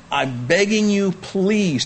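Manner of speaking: high, pleading voice of Paul. Retold or imitated. Preacher voicing Paul begging his readers, high and pleading. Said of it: "here he is saying".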